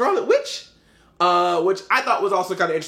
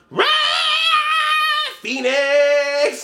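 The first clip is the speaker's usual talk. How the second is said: louder, higher hammed-up roar; mock battle roar; 4 dB louder, much slower than usual. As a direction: roar the name like a superhero unleashing power. Jean Grey unleashing Phoenix.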